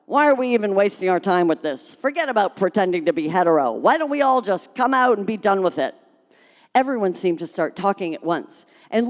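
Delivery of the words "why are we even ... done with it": yelled out. Acted. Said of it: "a woman yelled out".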